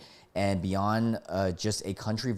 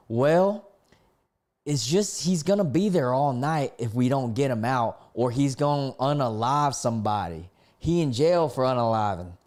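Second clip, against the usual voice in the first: put-on higher-pitched country-accented passenger; 3 semitones higher, 3 dB louder than usual. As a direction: reread it in an exaggerated country twang. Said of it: "let me do this with a country accent".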